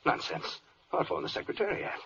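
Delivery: hushed, breathless whisper to himself. Acted. Flustered official whispering to himself, hushed. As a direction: whisper it so nobody hears. Flustered character hides his fright.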